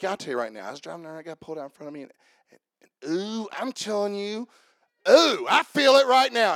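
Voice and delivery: imitating someone getting riled up mid-story; breathless rush, then a big ooh; worked-up retelling. Preacher imitating a congregant reliving road rage, worked up.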